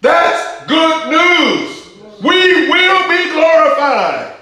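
high, slow and loud, each phrase held out; preaching climax. Acted. Preacher rallying the answering congregation, high, slow and loud. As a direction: lift the church to its feet.

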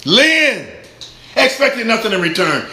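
high, loud scripture proclamation; ringing pulpit declaration; full-force preaching. Acted. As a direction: preach it out, drawing out the last words.

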